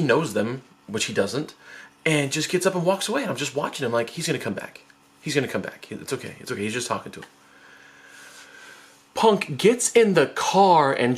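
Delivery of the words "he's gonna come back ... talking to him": soft, low murmured reassurance; self-reassuring. Retold or imitated. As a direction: quietly talk yourself out of worry. Nervously reassures self watching brother.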